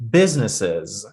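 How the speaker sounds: Businesses with BUS stressed; stress on first syllable. Shown as a demonstration. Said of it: "you see where she's putting the stress".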